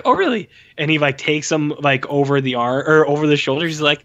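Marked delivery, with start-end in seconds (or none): 0.0-0.5 high mocking oh really; mock sarcastic king. King mocking his son's boyfriend, high and sarcastic. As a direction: sneer it like a scornful king. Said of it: "and he's like".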